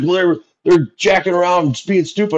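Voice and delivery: high, put-on voice of a defensive dad; an excuse thrown back at the coach; defensive parent. A parent defending his yelling to the coach, high put-on voice. Parent quoted justifying himself.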